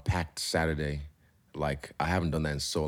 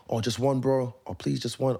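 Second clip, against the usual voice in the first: mimicking pleading fans; 7 semitones higher than usual. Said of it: "all of them say the exact same line".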